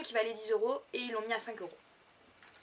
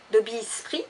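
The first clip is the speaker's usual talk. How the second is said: louder, hammed-up French-tinged English accent; 8 dB louder than usual. Vlogger quoting Dobby for viewers, self-mocking English accent. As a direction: proudly attempt an English accent. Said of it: "Avec mon magnifique accent anglais".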